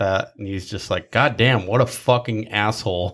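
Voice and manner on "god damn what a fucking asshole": put-on angry cursing outburst. Retelling a state trooper cursing a boss, retelling an angry outburst. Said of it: "the state trooper got all pissed off".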